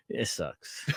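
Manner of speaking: low, hushed admission with a chuckle; mock deflation. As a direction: drop it right down, as if defeated. Deflated punchline after high hopes.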